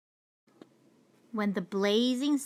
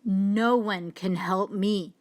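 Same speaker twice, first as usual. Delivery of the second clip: hopeless lion. Acted. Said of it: "he said".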